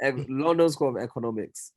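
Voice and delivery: "London School of Economics" in a light Nigerian accent; a touch of Nigerian vowels on "Economics". Shown as a demonstration. Naming his university to friends, light Nigerian accent. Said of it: "I can only say it in a Nigerian accent now".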